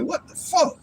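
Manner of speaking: high, soft, put-on baffled voice; mock bewildered kid. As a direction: squeak it out like a confused kid. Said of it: "I'm like".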